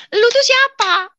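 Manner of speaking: high, loud, drawn-out yell; shouted demand. Retold or imitated. Wife yells at the voice, husband overhears, shouting. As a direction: yell the question slowly, stretched high. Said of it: "Suami saya teriak".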